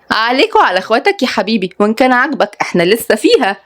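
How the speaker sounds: lightly voiced cheeky threat; teasing young woman. Rival teasing.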